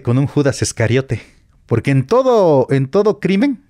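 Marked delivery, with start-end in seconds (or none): 1.7-3.7 trying not to laugh. Real, not acted. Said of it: "perdón si me da risa".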